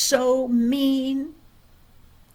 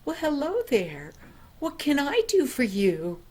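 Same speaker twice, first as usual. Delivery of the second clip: kindly; 4 semitones higher than usual. Acted. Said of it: "very kindly she said".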